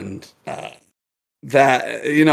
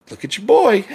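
high, louder sarcastic callout; retold mockery; 8 semitones higher, 5 dB louder than usual. Bartender to the other owner, mocking callout. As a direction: show him up to his partner. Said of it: "and I'm like".

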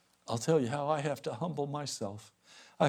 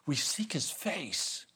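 tender devotional tone; slower than usual. Acted.

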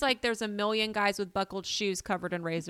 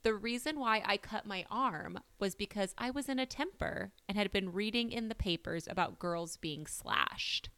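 put-on British accent; 4 dB quieter than usual. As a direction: read the quote in a weak British accent. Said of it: "So her quote was".

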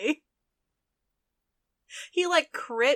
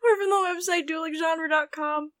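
helpless laughter; 5 semitones higher than usual. Real, not acted. Plug while cracking up.

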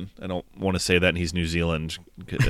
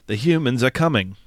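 mock Australian accent, pitched up; raised-voice parody of an Australian accent; 5 semitones higher than usual. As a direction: imitate an American accent slipping into Australian. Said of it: "His Australian shines through".

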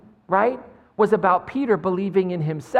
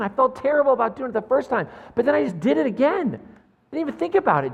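distressed confession; 7 semitones higher than usual. Acted. Peter confessing denial to Jesus.

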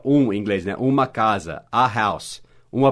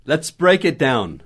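"Let's break it down" said slowly; slow clear phrase; slower than usual. Shown as a demonstration. Teacher modeling slowly for students. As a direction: spell out each word for learners. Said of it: "Break down quer dizer destrinchar".

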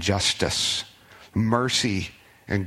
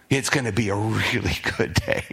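laughing; 3 semitones lower than usual. Real, not acted. Repeats with a laugh.

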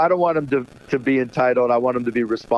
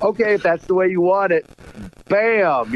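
playful raised-pitch comeback with a punch; mock defiant retort; 5 semitones higher than usual. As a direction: act out a dad taking up the challenge. Dad's retort to snubbing daughter.

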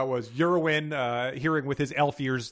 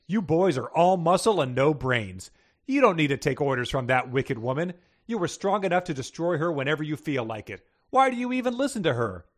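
sarcastic; 4 dB louder than usual. Acted. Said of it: "said sarcastically".

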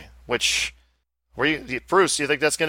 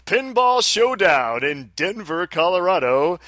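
announcer voice; 3 semitones higher than usual. Shown as a demonstration. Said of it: "announcer voice".

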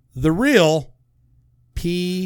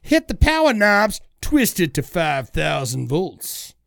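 hype show intro. Pretend. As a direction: fire up the crowd with each command.

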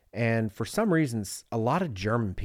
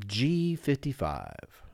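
slow, drawn-out bingo call; bingo caller; much slower than usual. Retold or imitated. Poolside bingo caller announcing numbers, slow and drawn out. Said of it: "that's how he would say it".

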